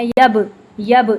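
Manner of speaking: یب with an echoing bounce on ب, very slow; qalqala bounce. Shown as a demonstration. Teacher demonstrating qalqala on silent ب. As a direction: release the ب with a small echo. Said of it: "اس پہ ہم قلقلہ کرتے ہیں".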